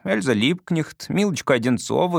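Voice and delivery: ordinary delivery, nothing marked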